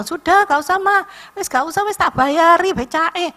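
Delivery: high, loud brush-off of thanks; insisting young man. Retold or imitated. Young man tells grandma he paid the becak, loud high insistence. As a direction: wave away her offer to pay, loud and high. Driver refuses her fare.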